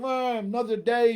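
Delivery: grumbling to yourself at the mirror; mock morning grumble; grumbly. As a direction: groan it out like someone dreading the morning. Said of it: "are, are, are grumbly".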